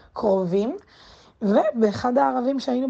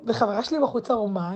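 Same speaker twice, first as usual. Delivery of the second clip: normal talking voice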